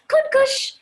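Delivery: loud, high call across a room; excited high shout of the name. Acted. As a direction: call the cat's name eagerly. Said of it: "they called".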